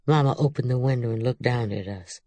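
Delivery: ordinary delivery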